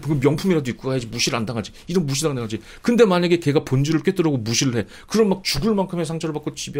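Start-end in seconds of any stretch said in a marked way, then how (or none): none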